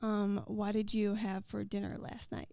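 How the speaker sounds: a Scot trying a full American accent; American accent, not quite landed; American accent attempt. Shown as a demonstration. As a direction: put on your best American accent, half laughing. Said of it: "full non-Scottish American accent".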